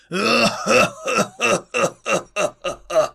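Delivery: high loud evil cackle; evil demonic laughter. Acted. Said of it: "Дьявольски заржал он искренним и крайне злобным хохотом".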